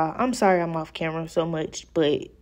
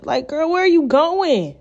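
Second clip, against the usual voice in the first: much higher, louder where are you going; exasperated; 9 semitones higher, 4 dB louder than usual. Real, not acted. Talking to her lifting wig, exasperated and loud. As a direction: call after the runaway lace.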